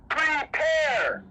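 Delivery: Prepare. thrown out as a shout; shouted repeat. Acted. Preacher driving home the command, shouted Prepare. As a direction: hurl Prepare. at the congregation.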